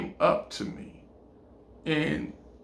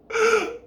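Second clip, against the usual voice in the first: mock sobbing. She comes out with crack pipe.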